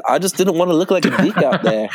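quick, light New Zealand accent impression. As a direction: imitate a laid-back New Zealand accent. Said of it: "in his big-ass New Zealand accent".

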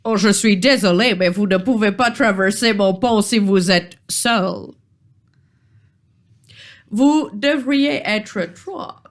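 put-on polite British-accented troll; apologetic official in mock British-accented French. Troll refuses the lone adventurer passage, polite British accent. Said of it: "charmant accent britannique".

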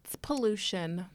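slow hushed reveal; whispered answer. Real, not acted. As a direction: breathe out the answer.

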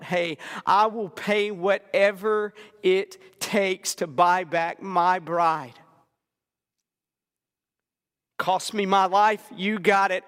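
impassioned preacher voicing the Savior's vow; calling out. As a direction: call it out with rising resolve, then press on firmly. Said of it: "Calling out".

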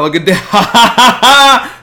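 high, loud laughter breaking through; cracking up at the clip; laughing hard. Real, not acted. Streamer cracking up watching the dance clip, laughing.

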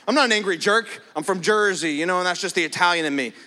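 lightly hammed-up guy defending his temper; mock excuse. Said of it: "that's an excuse".

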